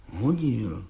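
low, muttered pigheaded "Hodil"; stubborn mumble. Acted. Bricklayer stubbornly insisting to the judge, mumbled. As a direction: mumble it doggedly, head down. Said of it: "mumlal Václav Lisický s beraný tvrdohlavostí".

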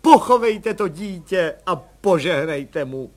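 slow, solemn and ceremonious. A narrator's reading. Mother asking the commissioner to bless the child, solemnly. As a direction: speak it slowly like a formal request. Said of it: "řekla paní Landová slavnostně".

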